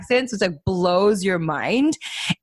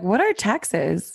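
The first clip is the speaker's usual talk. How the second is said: mock clueless; much slower than usual. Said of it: "And I'm just kidding".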